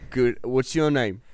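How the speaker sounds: lightly put-on British accent. Lewis meeting Tolkien at the pub, light British accent. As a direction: play Lewis with a hint of British. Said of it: "work on our British accents".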